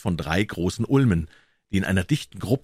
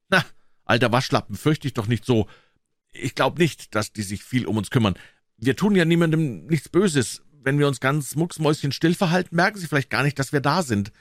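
put-on high boy's voice, reassuring a friend; brave-talking boy Tom; 7 semitones higher, 3 dB louder than usual. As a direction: talk your scared friend round, pitched up. Narrator voices Tom reassuring Huck.

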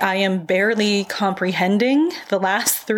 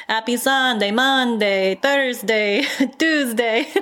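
Apollonia quote; 2 semitones higher than usual. Retold or imitated. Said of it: "in the words of Apollonia".

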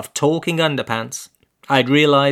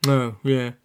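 shamefaced. Acted. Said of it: "slightly shamefaced".

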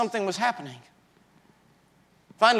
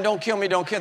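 crying out; 3 semitones higher, 4 dB louder than usual. Retold or imitated.

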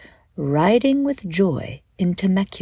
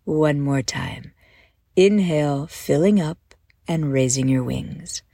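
calm, measured guided-visualization voice; unhurried guide easing them into a daydream; guided meditation. Acted. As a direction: lead listeners gently through breath and imagery, with pauses.

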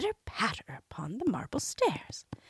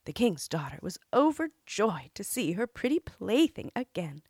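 usual speaking voice

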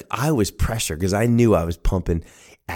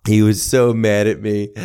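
plain reading voice

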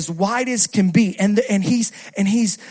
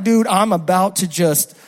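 mock threat; 3 semitones lower, 7 dB louder than usual. Mock threat to slow driver.

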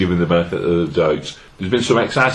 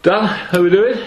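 raised voice, pitched up high; calling from far away; 12 semitones higher than usual. Real, not acted. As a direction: call down the long table. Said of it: "Can you hear me down there?".

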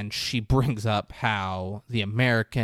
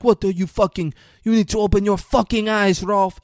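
mock angry shout; 9 semitones higher, 7 dB louder than usual. Rolf confronted at party.

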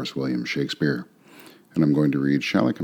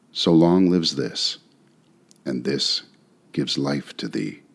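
poetry reading. Acted. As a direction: read it like a poem performed for listeners. Reads the sonnet aloud.

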